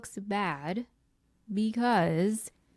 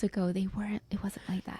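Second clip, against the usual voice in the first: whispering; 5 dB quieter, faster than usual. Real, not acted. Whispered aside.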